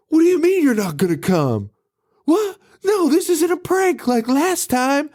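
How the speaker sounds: high-pitched, hammed-up protest; mock exasperated caller. Radish begging the sheriff by phone, hammed-up exasperation. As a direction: plead down the phone in mock disbelief. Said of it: "he's like".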